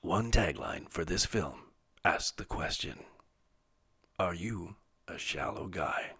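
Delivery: slow, drawn-out trailer narrator; movie trailer voice. Acted. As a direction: announce it like an epic trailer. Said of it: "in your movie, movie guy voice".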